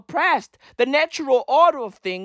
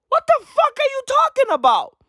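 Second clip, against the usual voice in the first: high, loud disbelieving yell; incredulous yell; 13 semitones higher, 3 dB louder than usual. Real, not acted. To Macron, a high loud disbelieving shout.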